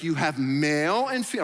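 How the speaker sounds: mock condescending, talking-down tone. Retelling Jesus explaining to the religious leaders: imitating Jesus talking down. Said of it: "talking to them like they're third graders".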